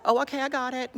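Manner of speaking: high, loud comic relief; mock flustered voice recovering; relieved British officer. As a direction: call back sheepishly that it's sorted. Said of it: "change the voiceover to have the last one".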